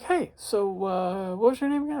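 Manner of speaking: high, probing woman's voice; curious woman. Retold or imitated. Quoting the curious woman questioning him, high and sweet.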